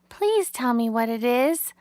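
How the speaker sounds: put-on begging young pig. A narrator's reading. Wilbur begs Charlotte to tell him her secret. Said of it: "begged Wilbur".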